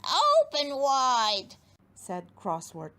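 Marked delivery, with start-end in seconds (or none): 0.0-1.6 slow, loud dentist order; routine, like any patient; matter-of-fact dentist. Acted. Crosswort tells the giant to open wide like any patient. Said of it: "as though ... any old gnome".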